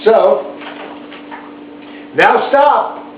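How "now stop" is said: Max ordering. A narrator's reading. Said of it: "Max said".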